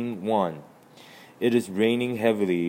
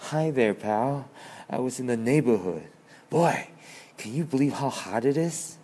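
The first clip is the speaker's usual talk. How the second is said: nervous; 3 semitones higher than usual. Acted.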